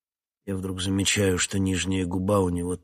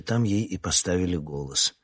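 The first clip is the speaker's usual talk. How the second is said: ordinary delivery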